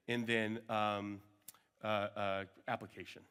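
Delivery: worn out late in the day, trailing off; searching for the word, tired and fading. Real, not acted. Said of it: "It's a little late in the day right now".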